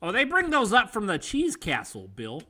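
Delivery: lightly put-on Wisconsin accent; folksy Wisconsin small talk. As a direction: play a Wisconsin local chatting. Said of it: "Now we're getting into Wisconsin".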